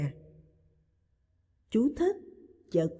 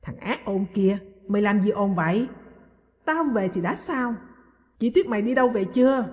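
scolding. Acted. Mother scolding her noisy son, mildly voiced irritation. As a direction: snap at the noisy boy, hurrying at the end. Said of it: "Bà Vinh rầy Lai".

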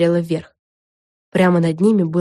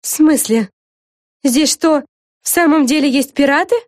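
taken-aback, raised-pitch question; stunned; 8 semitones higher, 4 dB louder than usual. A narrator's reading. Flafanora learns there may be pirates, stunned. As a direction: ask in bewilderment, voice climbing. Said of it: "ошарашенно спросила Флафанора".

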